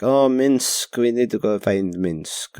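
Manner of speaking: terrible, half-hearted character impression; drawn-out, badly faked game-character voice; Jaheira. Podcaster badly imitating a game companion looking for a friend, half-hearted impression. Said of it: "That was my terrible impression".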